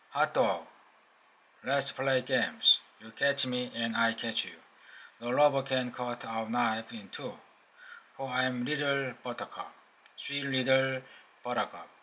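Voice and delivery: a hint of a tipsy robot singing to itself; playful mechanical chant, lightly done; sing-song robot voice. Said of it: "An open speech robot voice".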